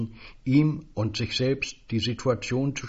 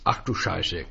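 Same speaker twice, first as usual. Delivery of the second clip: low, grumbling curse; a muttered, irritated Ach du Scheiße; mild growl; 4 semitones lower than usual. Acted. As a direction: grumble it under your breath. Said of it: "knurrte Gericke".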